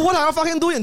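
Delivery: half-laughing replay of cursing him out; retold English curse. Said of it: "英语那个时候你骂完了". (笑着重现的英文骂人喊叫)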